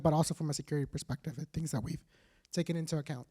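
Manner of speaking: hoarse voice fading out; worn voice, dropping away quietly; losing voice. Real, not acted. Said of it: "losing my voice now".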